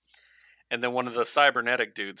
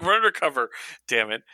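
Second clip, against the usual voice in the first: louder, higher mock exasperation; raised-voice plea to cut it out; exasperated Batman; 4 semitones higher, 6 dB louder, faster than usual. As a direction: tell a partner off, acted annoyance.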